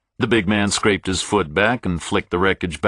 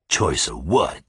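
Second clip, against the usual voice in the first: blank surprise; 4 semitones lower than usual. Acted. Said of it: "blankly, surprised".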